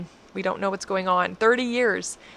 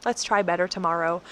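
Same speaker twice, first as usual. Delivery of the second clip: tender self-talk. Retold or imitated. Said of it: "speak to your own heart tenderly and gently".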